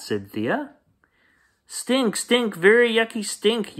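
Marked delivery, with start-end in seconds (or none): 1.7-3.8 put-on high squeaky kid yell; yelling child. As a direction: shout it out in disgust. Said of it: "yelled Tate".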